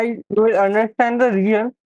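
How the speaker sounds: talking around a pen held in the mouth. Real, not acted. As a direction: speak with a pen between the teeth. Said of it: "please do not make fun of mine".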